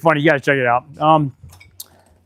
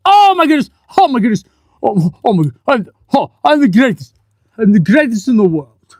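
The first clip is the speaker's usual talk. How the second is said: excited boast. Real, not acted. Celebrating finding the part.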